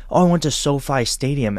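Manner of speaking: lightly hammed British accent. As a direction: mimic a British coworker. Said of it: "give him my British accent".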